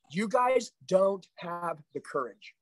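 slow, weighty accusation; slow emphatic. Real, not acted. Coach tells his sales team they lack courage, slow and weighty. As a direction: lean on each word slowly. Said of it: "repeated for emphasis".

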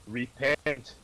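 demonic voice. Acted. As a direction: call it out like a demon. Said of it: "your demonic voice is terrifying".

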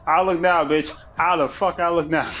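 high-pitched, put-on defiance; mock indignant challenge. Coming back the next day to show off, mock indignant. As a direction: challenge them in mock outrage.

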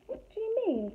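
put-on high, alarmed little girl; a scared child asking; high girl voice, starting to be afraid; frightened girl. A narrator's reading. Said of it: "said Gretel".

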